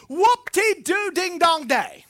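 loud, high, slow mockery; big sarcastic whoop, stretched out; sarcastic cheering. Real, not acted. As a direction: belt out a drawn-out, unimpressed hooray. Mocks the boast he just mimicked.

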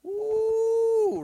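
high, drawn-out "oooh"; sustained high wail of conviction; long "ooh". Real, not acted. Preacher reacts to his own conviction.

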